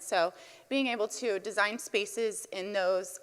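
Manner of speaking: nervous, slightly shaking voice; shaky voice. Real, not acted. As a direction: voice trembling with nerves. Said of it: "My voice is shaking a little".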